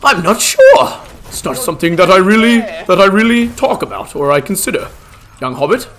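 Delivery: hint of a bumbling old wizard; Gandalf role-play. Streamer playing Gandalf for chat, lightly voiced old wizard.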